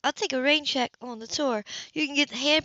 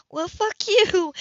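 slow, louder, bitter curse; furious; 7 semitones higher, 5 dB louder, slower than usual. A narrator's reading. Anna to Cam in a fury, slow louder curse. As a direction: spit each word slowly.

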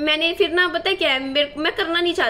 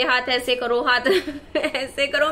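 laughing while quoting. Retold or imitated. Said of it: "मैं हंसे जा रही".

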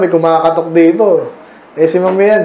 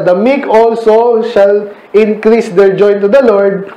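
slow scripture reading; slower than usual. Shown as a demonstration. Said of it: "pinaral sila".

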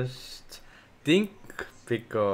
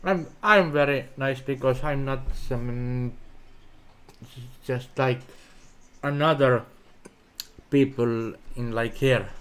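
mouth full. Real, not acted. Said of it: "you're talking with your m-, mouth full".

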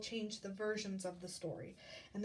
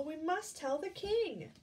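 chick voice; 6 semitones higher, 4 dB louder than usual. Acted.

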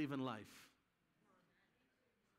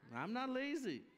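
higher, punchy and emphatic on lazy; with spunk; 7 semitones higher than usual. Shown as a demonstration. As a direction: say it proud and forceful. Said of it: "say it with some spunk".

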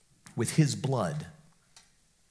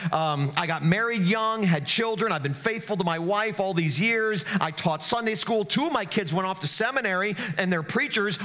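higher and fast, proud recital of his good life; self-satisfied man at heaven's gate; 5 semitones higher, faster than usual. Retold or imitated. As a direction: list your merits to Peter, quite pleased with yourself. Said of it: "And this guy's like".

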